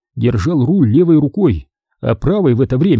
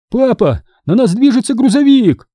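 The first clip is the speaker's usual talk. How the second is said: much higher, urgent warning cry; alarmed shout; 11 semitones higher, 4 dB louder than usual. A narrator's reading. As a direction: yell a warning about the truck. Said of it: "закричал Грег".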